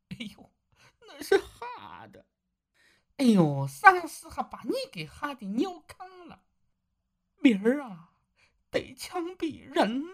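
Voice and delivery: ashamed husband admits his fear to his wife, softly; soft and trembling. A narrator's reading. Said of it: "小声地说". (小声发颤，带着哭腔)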